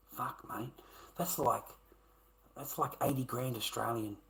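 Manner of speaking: breathy shocked whisper; stunned at the size of the debt, whispering. Real, not acted. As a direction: whisper it in disbelief.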